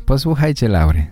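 ordinary talk

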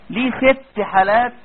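ordinary talk, nothing marked

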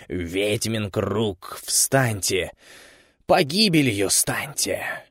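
slow rhythmic chanted spell; witch incantation. Acted. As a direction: chant the curse, rising to a cry. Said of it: "прокричав последнюю фразу".

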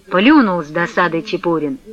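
plain reading voice

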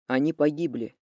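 low and level; even, flat reply. A narrator's reading. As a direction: say it evenly, holding it in. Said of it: "ровно ответил Тополев". (ровно, сдержанно)

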